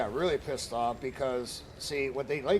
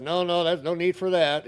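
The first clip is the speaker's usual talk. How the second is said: quick, higher, louder mock-panicked "no, no"; flustered backpedal; 6 semitones higher, 8 dB louder than usual. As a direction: play her hurrying to calm him down. HOA woman backs down hastily.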